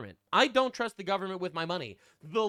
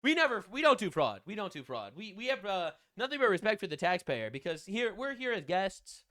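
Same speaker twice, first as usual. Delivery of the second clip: mock Korean accent; 2 semitones higher, 4 dB louder than usual. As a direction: parody a nervous shifty worker. Dubbing the worker, mock.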